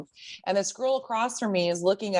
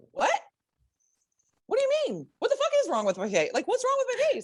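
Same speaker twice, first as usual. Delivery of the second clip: retold disbelief, much higher, laughing through it; shocked; faster than usual. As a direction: replay your stunned reaction, half laughing. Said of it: "And I was like".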